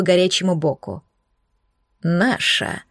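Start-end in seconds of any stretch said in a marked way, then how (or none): 2.0-2.8 offended correction. Acted. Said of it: "обиженно поправил Оушен".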